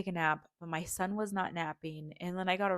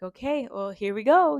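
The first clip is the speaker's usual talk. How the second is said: bracing herself; 5 semitones higher, 8 dB louder than usual. Retold or imitated. Bracing before speaking.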